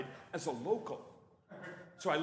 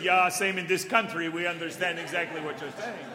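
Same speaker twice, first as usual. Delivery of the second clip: louder, amused, knowing agreement; knowing laughter; 7 dB louder than usual. Retold or imitated. Department heads laugh along, knowing loud agreement.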